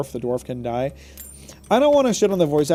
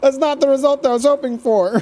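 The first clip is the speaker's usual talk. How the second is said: high, loud, through laughter; laughing; 10 semitones higher, 4 dB louder than usual. Real, not acted. Player after a wand mishap, laughing. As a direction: say it while cracking up.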